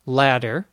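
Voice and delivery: ladder with a quick D in the middle; D sound. Shown as a demonstration. Teacher giving the example word ladder, D sound. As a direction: tap the middle of ladder lightly. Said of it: "pronounced in normal conversation ladder".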